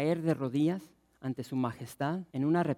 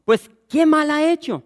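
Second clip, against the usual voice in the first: much higher, louder protest; governor pleading; 12 semitones higher, 13 dB louder than usual. Acted. Pilate protests to the shouting crowd, high and loud. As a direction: plead with the mob, voice jumping up. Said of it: "el gobernador les dijo".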